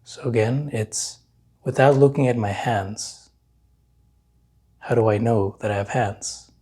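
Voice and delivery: unhurried meditation guide, long pauses between phrases; guided meditation. Real, not acted. Meditation teacher leading listeners to notice their hands, calm guiding voice. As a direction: guide them calmly, leaving long silences to feel.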